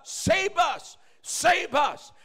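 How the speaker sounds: high, loud cry of Save us; desperate shout. Retold or imitated. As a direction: beg for rescue as the crowd. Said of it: "sumisigaw sila".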